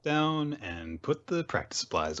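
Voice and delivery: slow, high put-on helper voice; hammed-up sweet manager voice; mock team mom. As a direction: play a dutiful team mom, drawn out. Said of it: "the mom of the group".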